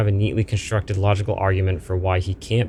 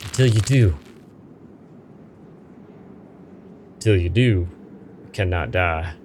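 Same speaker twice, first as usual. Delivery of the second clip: slow, ominous spirit voice, lightly voiced; menacing ghost; slower than usual. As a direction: draw out the curse like a threat. Ghost threatens eternal life.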